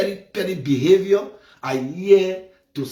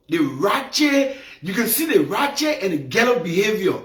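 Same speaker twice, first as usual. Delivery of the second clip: shouting denunciation; 4 semitones higher than usual. Real, not acted. To viewers about the girl, shouting in outrage. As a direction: hammer the word ratchet in outrage. Denouncing her behavior.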